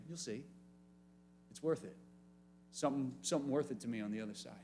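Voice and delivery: a soft, quiet hint of Jesus reassuring; imagined Jesus, softly. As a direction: quietly tease them that it's worth it. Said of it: "you can imagine Jesus saying".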